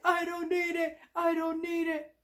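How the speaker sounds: high cartoon sponge voice; lightly voiced cartoon sponge; SpongeBob voice. SpongeBob voiced, tempted by water.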